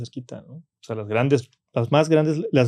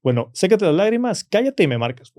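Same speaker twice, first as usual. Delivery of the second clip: abuelo severo, más fuerte y más agudo; orden firme del abuelo; 7 semitones higher, 4 dB louder than usual. Retold or imitated. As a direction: mandar callar con autoridad seca. (abuelo firme ordena al nieto llorón)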